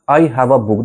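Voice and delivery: "a" said as "uh", linked into book; article as schwa. Shown as a demonstration. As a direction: say "a" as a light "uh" in I have a book. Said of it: "চেষ্টা করো অ উচ্চারণটা করার".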